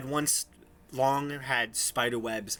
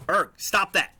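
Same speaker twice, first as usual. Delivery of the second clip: loud, higher scolding shout; scolding orc; 8 semitones higher, 9 dB louder than usual. Acted. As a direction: tell off a clumsy helper, loudly. Orc scolds ogre in game.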